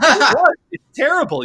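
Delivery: high, loud laughing admission. Real, not acted. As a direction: laugh it out, unable to hold back. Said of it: "laughing admission".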